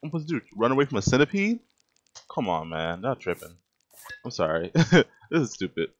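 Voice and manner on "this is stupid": laughing loudly through the words. Real, not acted. Gamer laughing at a centipede chasing him. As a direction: crack up at how silly it is.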